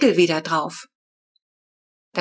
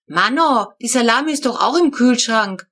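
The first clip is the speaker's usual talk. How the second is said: put-on sulky, higher kid's protest; grumbling child; 4 semitones higher, 3 dB louder than usual. Flo grumbling at her parents about the fridge, sulky. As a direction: whine back at the grown-ups. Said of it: "motzte Flo".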